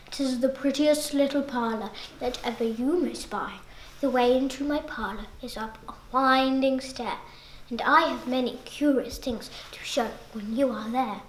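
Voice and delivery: soft, luring voice, sinking to a whisper; sly spider. Acted. Spider softly tempting the fly into his parlour. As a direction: coax the fly in quietly.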